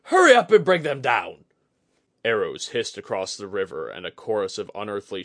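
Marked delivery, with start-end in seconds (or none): 0.0-1.5 loud, high battle shout; roar. Acted. Commander ordering archers to shoot, roaring. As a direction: bellow the order to the troops. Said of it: "he roared".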